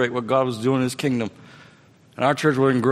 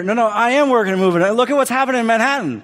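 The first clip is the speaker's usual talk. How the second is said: God's answer; 10 semitones higher, 6 dB louder than usual. Retold or imitated. God answers in quarrel.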